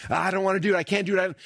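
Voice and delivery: whiny inner voice. Retold or imitated.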